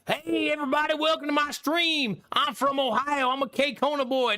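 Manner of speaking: a lightly voiced fake stream greeting, teasing Drongo; mock streamer voice. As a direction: play a cheesy welcoming streamer. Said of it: "What do you want me to talk like?".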